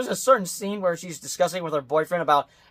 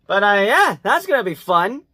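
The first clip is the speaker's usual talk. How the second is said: mock-eager, pitched up and punched; sarcastic; 2 semitones higher, 4 dB louder than usual. Real, not acted. Reviewer on the coming fourth movie, sarcastic. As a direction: feign excitement with heavy irony. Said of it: "As I say that sarcastically".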